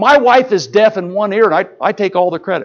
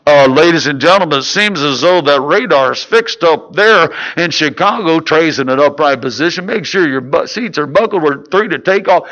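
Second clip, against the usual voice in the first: imitated airline captain on the intercom; lightly voiced pilot addressing the cabin; pilot announcement; 3 semitones lower than usual. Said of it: "the pilot comes on again".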